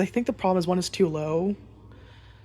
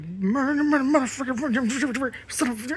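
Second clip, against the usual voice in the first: higher, strained cartoon cussing under the breath; Yosemite Sam grumbling; 6 semitones higher than usual. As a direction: grumble curses like a cranky cartoon cowboy. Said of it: "mumbles to himself, cussing".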